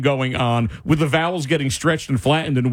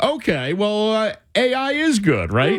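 mock convinced; 5 semitones higher than usual. Imagined listener won over by AI.

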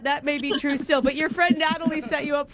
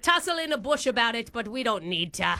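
badly faked Aussie; put-on Australian accent; 3 semitones lower, faster than usual. Prank caller offers the interviewer a tussle, in fake Australian. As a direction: bluster in mock Australian. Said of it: "you definitely don't sound Australian".

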